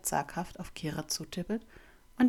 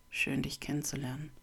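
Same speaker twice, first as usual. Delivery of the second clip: leicht raue, ernste Stimme; ernst, etwas rau sprechen; rau und ernst; 3 semitones lower, 4 dB quieter than usual. Acted. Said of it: "Seine Stimme ist rau und ernst". (raue, ernste Stimme)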